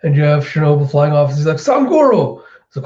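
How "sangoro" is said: high, loud shout of a name; retold urgent yell; calling out. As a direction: call after someone flying away. Shinobu calls out while flying off.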